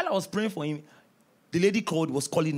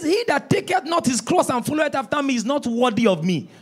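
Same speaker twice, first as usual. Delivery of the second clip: emphatic scripture repeat; 5 semitones higher, 6 dB louder than usual. Acted. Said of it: "He says".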